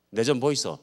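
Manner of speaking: Gyeongsang accent demo; Gyeongsang dialect. Shown as a demonstration. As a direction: say it like a Gyeongsang local. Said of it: "경상도 말로는".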